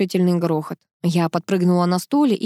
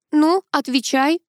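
demanding; 8 semitones higher, slower than usual. A narrator's reading. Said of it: "потребовала Тоня".

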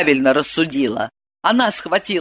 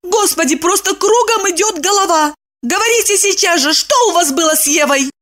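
flustered; 12 semitones higher than usual. A narrator's reading. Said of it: "спохватилась она".

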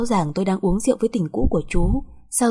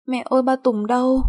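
put-on high, childish plaintive question; little child; 5 semitones higher than usual. Small daughter asking mother where father is, childish.

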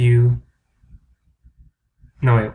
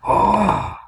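disbelief; 7 semitones higher, much slower than usual. Real, not acted. High disbelief.

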